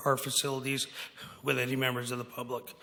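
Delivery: hoarse, fading raspy voice; losing voice. Real, not acted. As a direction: voice giving out, rough and worn. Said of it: "I'm losing my voice too".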